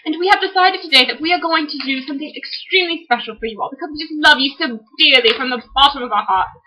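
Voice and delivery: playfully exaggerated British presenter; corny British accent. Sister introduces the book reviews, corny British accent. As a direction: ham up a British accent to amuse. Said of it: "read them in corny British accents".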